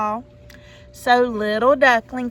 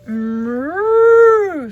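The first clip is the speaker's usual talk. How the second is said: loud lowing moo; a storyteller's loud cow moo; 3 semitones higher, 8 dB louder than usual. Acted. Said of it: "said the cow".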